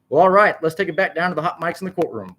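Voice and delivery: sudden high, loud burst, then easing in level; high-pitched announcer blurt. A narrator's reading. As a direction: burst in to rescue the broadcast. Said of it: "blurted Sammy out the speaker".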